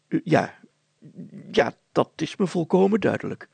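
mild flustered agreement; lightly voiced confused mayor. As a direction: pretend you understand. Mayor feigns understanding.

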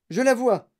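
high, loud exclamation; excited cry. A narrator's reading. Wonka spotting the little house, crying out. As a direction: call out the sighting. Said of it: "s'écria monsieur Wonka".

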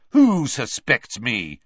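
demanding, slow, indignant; angry. Acted. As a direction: bristle at the accusation. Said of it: "said Malfoy angrily".

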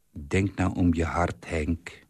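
sad. Acted. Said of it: "zei ze treurig".

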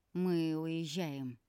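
slow, hesitant announcement; slightly unsure. Acted. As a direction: announce it, but falter a little. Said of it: "объявил ты слегка неуверенно". (слегка неуверенно, медленно)

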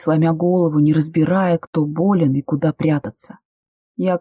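ordinary delivery, nothing marked

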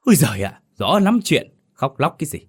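husband snapping at his wailing wife; snapping scold. A narrator's reading. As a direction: bite the words at the wife. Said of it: "gằn giọng quát vợ".

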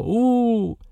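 high, drawn-out sobbing wail. Acted. The husband breaks down in a sobbing wail. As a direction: let the grief break out in a long wail. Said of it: "Мужчина зарыдал".

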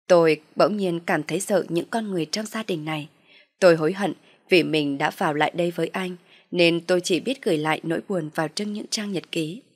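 plain reading voice

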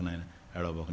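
near-hushed comfort; soft consoling. Acted. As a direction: hush him gently like a friend. Uddhava consoling weeping Krishna.

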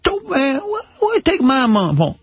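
very high, whiny plea to a bully; pleading kid voice. Retold or imitated. To the big kid Irvin taking his money, a high whining plea. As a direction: beg the bully not to take your money. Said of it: "I go".

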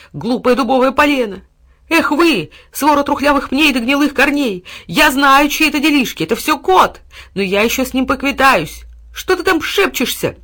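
high, loud barking insults; furious dog. A narrator's reading. Dog raging at the trees and the cat. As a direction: snarl every insult at the trees.

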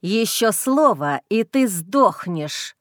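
slow hissed threat in the ear; hissing threat. Acted. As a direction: hiss it slowly, menacing. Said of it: "прошипел он мне в ухо".

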